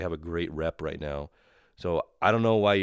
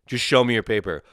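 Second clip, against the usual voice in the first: mock officious order, louder; mildly barked imitation of an official; imitated border agent; 2 semitones higher, 6 dB louder than usual. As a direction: parrot the agent's curt command.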